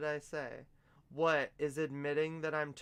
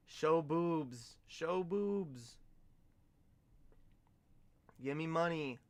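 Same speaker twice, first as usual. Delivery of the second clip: mock chatter voice; 3 semitones higher, slower than usual. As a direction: parrot a pushy viewer. Mimics crude chat demand.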